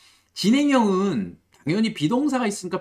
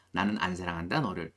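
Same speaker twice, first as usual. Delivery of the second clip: 나는 안 사랑한다 너를 repeated much softer and lower; 9 semitones lower, 7 dB quieter than usual. Shown as a demonstration. Teacher quietly repeats the translation, softly. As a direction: murmur it back gently. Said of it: "이렇게 해석을 해주시면 좋습니다".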